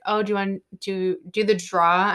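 lightly imitated Boston accent, R dropped on "draw"; a hint of Boston coworker. Restaurant coworkers at the till, mock Boston accent. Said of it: "people with thick Boston accents".

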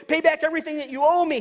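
high, loud demand for payment. Acted. Servant choking his fellow servant, loud angry demand. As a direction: bark at him to pay up. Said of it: "he demanded".

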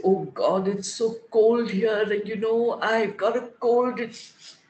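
mock moaning about the cold; complaining. Telling a friend on the phone, mildly moaning. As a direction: whine it a little, like someone feeling sorry for themselves. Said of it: "And I say".

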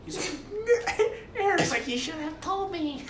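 high laughing through the words; giggling while quoting the manager. Real, not acted. Cracking up retelling the manager's reply.

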